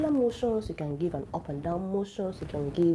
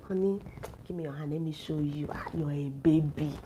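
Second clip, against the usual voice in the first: softer, sweet and coaxing, like guiding a lover; tender coaxing; 5 semitones lower, 3 dB quieter than usual. Shown as a demonstration. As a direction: murmur it gently, teasing him as your baby. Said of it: "You can say".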